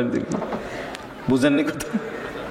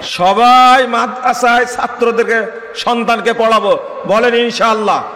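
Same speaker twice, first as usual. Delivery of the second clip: rousing crowd call; 6 semitones higher, 4 dB louder than usual. Real, not acted. Preacher leads the crowd's pledge.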